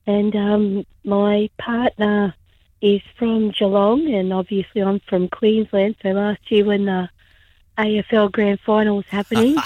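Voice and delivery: hoarse, strained voice with laryngitis. Real, not acted. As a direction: rasp through a sore throat. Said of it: "rest up with the voice".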